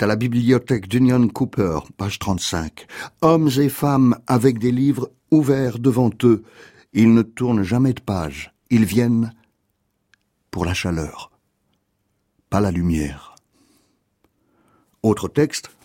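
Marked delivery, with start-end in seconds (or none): 3.2-13.3 poem read in short lines, pausing before the last images. Acted. Reads a poem aloud.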